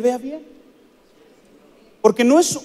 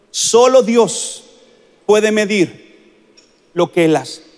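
each word spaced out very slowly; slow solemn repetition for weight; very slow emphasis; slower than usual. Shown as a demonstration. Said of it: "escúcheme bien lo que le voy a decir".

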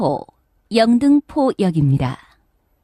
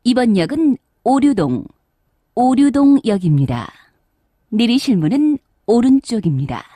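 over the intercom; 7 dB louder than usual. Real, not acted. Subway station announcement on PA.

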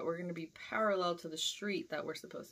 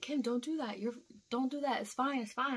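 higher-pitched, pleading imitation; imitated pleading; 6 semitones higher than usual. Coworker begs Kim not to quit, mild pleading. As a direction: act out trying to talk someone down.

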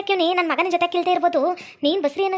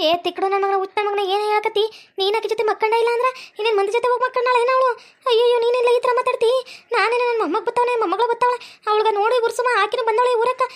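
indignant scolding; 5 semitones higher than usual. Acted. Mother scolds son over pregnancy.

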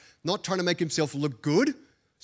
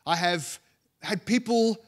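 higher-pitched, earnest acted protest; impassioned protest; 4 semitones higher than usual. Preacher voices Paul answering whether he was just inconvenienced, impassioned. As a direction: plead the case as Paul, pitched up.

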